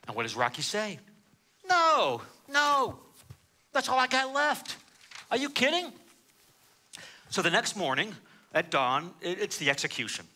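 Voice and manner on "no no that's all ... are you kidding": defiant refusal. Retold or imitated. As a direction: brush the priest off like a cocky gangster. Rocky refuses again.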